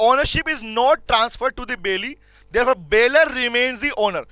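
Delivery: words spaced out for note-taking; slow classroom dictation. Shown as a demonstration. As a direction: dictate it slowly for the class to copy. Teacher dictating notes.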